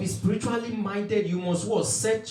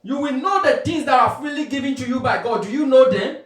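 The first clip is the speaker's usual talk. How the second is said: raised, insistent preacher's voice; emphatic preaching; 5 semitones higher, 5 dB louder than usual. Real, not acted. Preacher challenging believers on what they know, emphatic preaching. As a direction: press the questions on the congregation.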